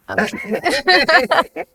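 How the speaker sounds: I'm keeping it, drawn out high and slow; high, slow sing-song repeat; playful high sing-song. Shown as a demonstration.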